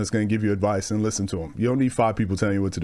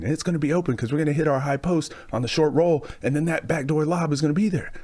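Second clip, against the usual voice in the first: a hint of a coach rattling on, higher; rambling overloaded coach; 4 semitones higher than usual. A coach swamping his players with plays, pitched a bit higher. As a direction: pile on instructions like an overloaded coach. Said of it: "too many coaches".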